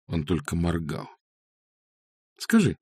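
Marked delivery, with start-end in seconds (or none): 2.4-2.8 sly. A narrator's reading. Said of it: "лукаво спросила она".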